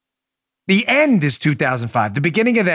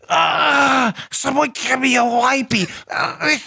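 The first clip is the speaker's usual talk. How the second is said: beaver voice; 7 semitones higher than usual. Acted. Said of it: "Do you like my Beaver voice?".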